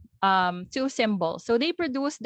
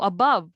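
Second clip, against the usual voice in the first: "above" as uh-BUV; weak a, strong BOVE in "above"; second-syllable stress; 3 semitones lower, 4 dB louder than usual. Shown as a demonstration. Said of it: "So unstressed ang a".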